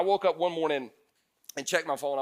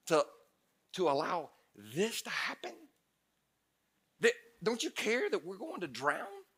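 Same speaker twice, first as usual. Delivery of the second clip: desperate prayer; 3 semitones higher, 8 dB quieter than usual. Retold or imitated.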